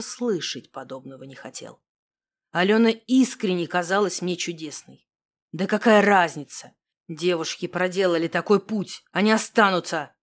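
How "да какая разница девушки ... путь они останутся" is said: curt. Acted. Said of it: "отрезал я".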